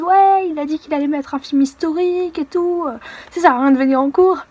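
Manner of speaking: lazy classmate shrugging it off; mock classmate. Classmates' side quoted.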